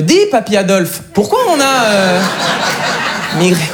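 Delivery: a hint of a little kid's question; child asking grandpa. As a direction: ask hesitantly, pitch lifted.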